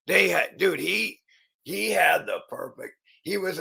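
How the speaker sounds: rising up in excitement; excited. Real, not acted. Telling how grandfather lived it up, excited and high.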